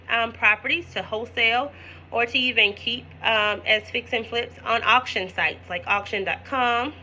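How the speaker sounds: talking through hiccups; hiccuping mid-sentence. Real, not acted. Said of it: "Forgive me, I have the hiccups".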